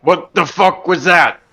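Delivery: slow, stunned disbelief. Real, not acted. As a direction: drag it out, shocked. Stunned reaction at table.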